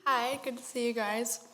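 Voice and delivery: talking around a mint; mint in mouth. Real, not acted. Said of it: "I have a mint in my mouth".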